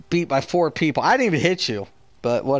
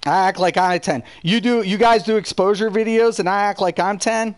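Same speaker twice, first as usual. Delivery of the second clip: indignant; 5 semitones higher than usual. Real, not acted. Heated quarrel, repeating taunt.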